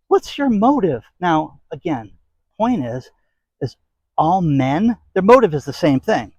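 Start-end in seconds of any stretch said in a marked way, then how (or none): 0.1-1.0 mock suspicious question. Mocking a suspicious date.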